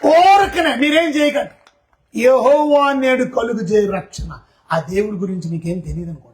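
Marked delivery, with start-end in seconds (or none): 2.2-4.4 slow, weighty scripture recital; solemn recitation. Acted. Preacher reciting the verse to the church, slow and solemn. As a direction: intone the verse slowly.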